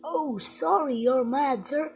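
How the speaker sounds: high, loud mock apology; pretend apology. Pretending the toy is mad, high fussing apology. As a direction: fuss over an angry toy.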